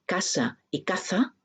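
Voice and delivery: casa with s, caza with th, set apart clearly; minimal pair demo. Shown as a demonstration. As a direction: show "casa" with an s and "caza" with a lisped th. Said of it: "En mi dialecto".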